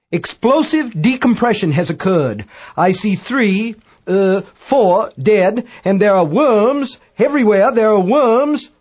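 high, loud, drawn-out report of disaster; Dagbolt reporting in alarm. A narrator's reading. British astronomer reports dead crew and worms, high horrified voice. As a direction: stretch the words out in high-voiced horror, building.

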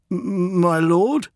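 stammered, rising surprise; startled. Acted. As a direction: caught off guard by the order.

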